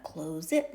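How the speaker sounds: "close it" with a long O, as in CLOZE-it; wrong trial pronunciation. Shown as a demonstration. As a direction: try "close it" with long O, questioning. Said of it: "No, we don't".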